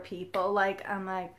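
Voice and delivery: ordinary talk, nothing marked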